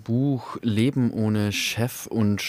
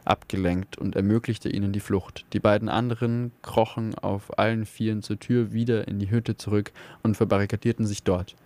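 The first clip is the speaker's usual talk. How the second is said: steady, engaged audiobook reading; story narration. A narrator's reading. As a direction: read the tale like a radio storyteller. Reads a novel excerpt aloud.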